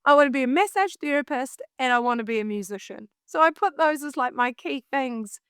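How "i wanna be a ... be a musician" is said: put-on Kiwi accent. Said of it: "say that in a Kiwi accent".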